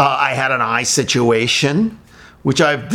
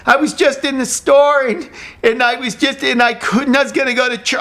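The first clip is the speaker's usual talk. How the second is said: mock panic; 9 semitones higher than usual. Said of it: "she's freaking".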